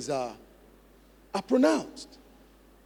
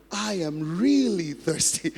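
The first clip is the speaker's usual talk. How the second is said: slow mirroring drill; 3 dB louder than usual. Shown as a demonstration. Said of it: "mirror them".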